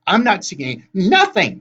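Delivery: slow, high, loud denial; yelling hag. A narrator's reading. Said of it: "Tempest yelled".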